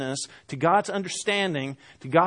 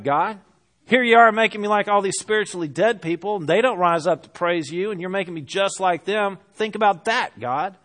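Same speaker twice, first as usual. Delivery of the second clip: sarcastic rhetorical questions, thrown at God; bitterly sarcastic. Acted. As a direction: challenge God with pointed, emphatic questions. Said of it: "a series of bitterly sarcastic questions".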